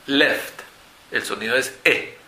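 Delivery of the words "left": LEFT said with a short e; short vowel demo. Shown as a demonstration. Teacher models a short E for learners, short vowel demo. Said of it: "que es un sonido corto".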